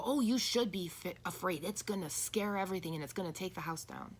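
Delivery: a mildly put-on scolding parent, first word pushed up; harsh scaring parent. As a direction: lightly mimic a parent frightening a teen. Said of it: "The abusive words of".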